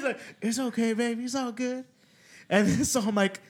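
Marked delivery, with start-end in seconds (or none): 0.4-1.8 higher, laughing impression of a friend; mock soothing friend, raised and giggly; imitating Marcos, laughing. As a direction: coo it through a laugh. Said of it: "Like how he talks".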